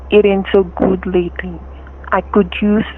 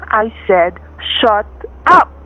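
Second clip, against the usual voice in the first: angry repeat. Acted. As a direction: make her stop, now. Thug repeats his threat.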